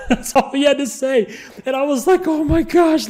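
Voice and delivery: high, cracking up at the punchline; incredulous laugh breaking into the words; laughing in disbelief. Real, not acted. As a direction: squeal it through laughter.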